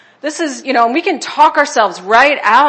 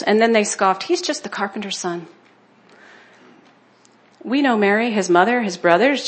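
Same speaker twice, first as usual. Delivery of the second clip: steady, softer Bible reading; scripture reading; 4 dB quieter than usual. Acted. Preacher reading Matthew to the church, soft and steady. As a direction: read the passage plainly to the congregation.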